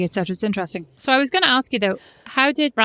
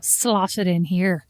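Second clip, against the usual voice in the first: mock suggestive; 3 semitones lower, slower than usual. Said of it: "Is that what you meant?".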